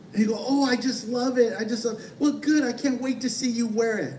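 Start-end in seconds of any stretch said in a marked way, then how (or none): 0.5-2.0 fake gushing. Fake gushing over hideous sweater. 2.2-4.1 a hint of a delighted grandma, raised pitch; pleased grandma. Grandma to grandchild wearing the sweater, higher and pleased.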